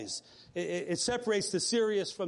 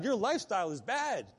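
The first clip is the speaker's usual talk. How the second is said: rising firmer as it goes, a bit higher; confronting friend; 5 semitones higher than usual. Retold or imitated. Friend Lenny confronting Rick about his lifestyle, firm. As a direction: lay it on him straight, building. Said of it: "confront me".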